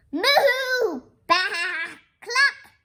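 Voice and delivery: loud, high farmyard animal noises; moo, bleat and cluck excitedly; high barnyard uproar; animal cries. Acted. Animals answer the farmer noisily.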